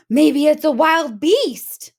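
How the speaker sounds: high, loud, slow squeal; little bear squealing in fright. Acted. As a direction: squeal it out like a scared cub. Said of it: "Little Wee Bear squealed".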